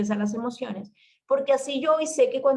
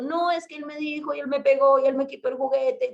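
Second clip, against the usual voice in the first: higher-pitched mock tattling; complaining child; 5 semitones higher than usual. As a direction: imitate a kid listing grievances against a sibling. Voices squabbling children blaming each other.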